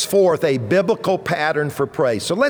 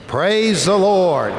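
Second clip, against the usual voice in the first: more enthusiasm; 3 semitones higher, slower than usual. Shown as a demonstration. Pastor models enthusiastic praise for congregation to repeat. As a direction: lead the crowd with more enthusiasm. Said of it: "Say it with a little more enthusiasm".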